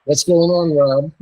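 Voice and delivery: loud, upbeat host shout-out; hyped greeting. Real, not acted. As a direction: greet him big and loud.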